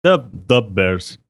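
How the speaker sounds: put-on slow Chicago accent. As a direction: echo the Bears Chicago style. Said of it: "Chicago accent".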